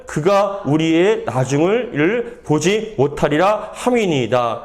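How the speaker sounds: slow, measured Bible reading; scripture reading. A narrator's reading. Pastor reads Jeremiah's plea to the congregation, solemn scripture reading. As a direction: read the verse out deliberately, phrase by phrase.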